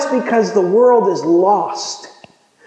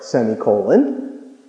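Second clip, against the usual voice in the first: dropped punchline; 10 semitones lower, 3 dB quieter, slower than usual. Real, not acted. Joke punchline on semicolon.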